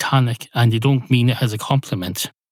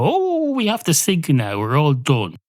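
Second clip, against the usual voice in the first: mock resigned sailor; 3 semitones higher than usual. Voicing Titanic crew giving up.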